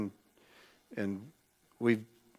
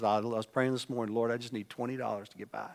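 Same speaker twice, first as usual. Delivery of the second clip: tearful woman; 5 dB quieter, faster than usual. Retold or imitated. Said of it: "She says".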